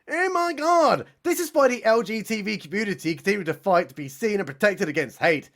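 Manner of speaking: shrieked high opening, then gushing; a celebrity screeching outrage. Acted. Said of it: "screeches Viola Davis".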